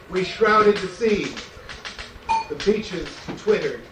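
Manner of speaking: steady, pounding chant with a fall on every line; marching song poem. Acted. Poet to audience, reading his marching song as a pounding chant. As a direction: drive each line like a drumbeat of conquest.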